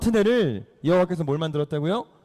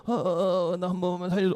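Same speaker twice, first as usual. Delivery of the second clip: acted elderly begging; pleading old man; 3 dB quieter than usual. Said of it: "할아버지가".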